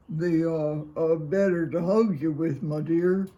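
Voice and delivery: a hint of a wolf posing as grandma; wolf playing Granny. A narrator's reading. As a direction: bluff it as sweet old Granny.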